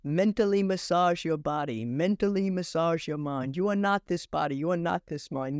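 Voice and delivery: a light guru impression, close to her own voice; a hint of a soothing guru; imitating the guru. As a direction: lightly intone it like a calm spiritual teacher. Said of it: "and I imitate the guru".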